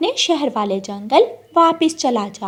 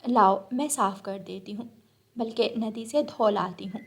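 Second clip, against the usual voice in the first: softer helpful voice; obliging bulbul; 6 dB quieter than usual. Acted. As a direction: bulbul eager to wash the fruit. Bulbul offers to wash. (धीमी, मददगार बुलबुल की आवाज़)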